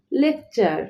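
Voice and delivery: লেকচার with the T said as "ch"; CH sound in লেকচার. Shown as a demonstration. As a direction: say লেকচার as "lek-char". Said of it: "সেই জন্য চ এর উচ্চারণ হয়েছে".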